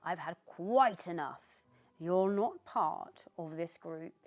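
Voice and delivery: loud, threatening witch; glaring witch. Acted. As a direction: menace him with every word. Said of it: "glared down at Christopher".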